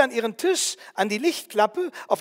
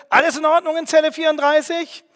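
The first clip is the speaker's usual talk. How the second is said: loud, higher barking roar through the door; gruff bellow; 6 semitones higher, 7 dB louder than usual. A narrator's reading. Prison guard checks cell thirty-four, shouting gruffly. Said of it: "brüllt mit barscher Stimme".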